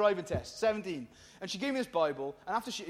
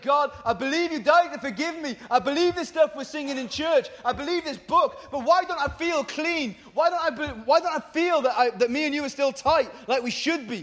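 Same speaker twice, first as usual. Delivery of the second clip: raised, insistent plea to God; pleading prayer; 4 semitones higher than usual. Retold or imitated. Young Christian questioning God over guilt, pleading. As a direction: plead with God, pitched higher. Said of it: "And I was like".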